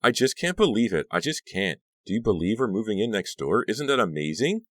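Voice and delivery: gush, overwhelmed with delight; excited gushing. A narrator's reading. Honey gushes about moving next door.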